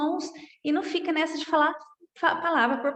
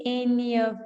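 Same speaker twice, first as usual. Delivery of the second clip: slow, clear, for repeating; slow repetition drill. Shown as a demonstration. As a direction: model it slowly for students to echo. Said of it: "Vai repetindo aí". (devagar, para repetir)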